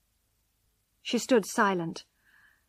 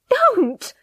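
even higher, louder second cry; 14 semitones higher, 12 dB louder than usual. Acted. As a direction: push the repeat up into a desperate shout. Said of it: "she cried".

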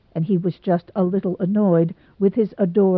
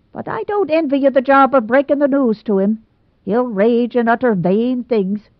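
a hint of Rebecca Dew; 4 semitones higher, 3 dB louder than usual. Rebecca Dew voiced by narrator.

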